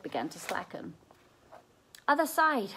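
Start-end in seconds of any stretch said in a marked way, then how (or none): 2.1-2.7 breathless high gasp; getting words out between breaths. A narrator's reading. Kendra to Seth, out of breath from milking. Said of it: "Kendra gasped".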